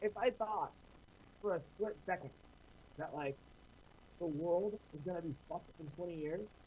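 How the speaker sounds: muffled, underwater-sounding voice; muffled mic. Real, not acted. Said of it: "you sound like you're underwater".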